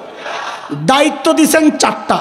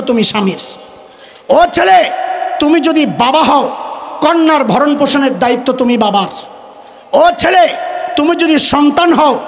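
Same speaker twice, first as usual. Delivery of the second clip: preaching at full force. Acted. Preacher calls out to young men and women, rousing sermon cadence. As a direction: rouse the hall with a rhythmic refrain.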